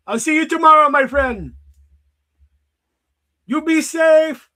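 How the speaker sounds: high, hammed-up mock British store clerk; British man. Convenience store clerk greeting a regular customer, in a mock British accent. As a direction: play an overly friendly British shopkeeper, pitched high. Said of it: "turned into a British man to say hot dog".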